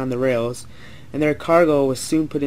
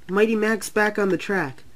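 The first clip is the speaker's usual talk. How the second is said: high, disbelieving voice; surprised; 7 semitones higher than usual. A narrator's reading. Billy sees Mac back on the track, surprised. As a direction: pitch up, astonished.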